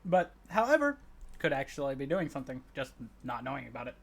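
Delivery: talking through hiccups. Real, not acted. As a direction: speak between hiccups. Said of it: "I got the hiccups".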